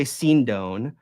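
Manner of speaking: "sindone" as SEEN-doan, stressed up front; rejected pronunciation. Shown as a demonstration. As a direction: punch the first syllable of "sindone", long o after. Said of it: "we don't say".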